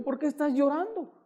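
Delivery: high-pitched mock indignant question; offended retort. Husband asking his crying wife why she cries, high offended retort.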